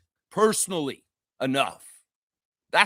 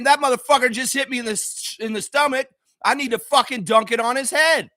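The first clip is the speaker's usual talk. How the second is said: acted fired-up anger, pitched up; indignant tough-guy response; 5 semitones higher than usual. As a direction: spit it out like a player wanting payback. Models angry player's response.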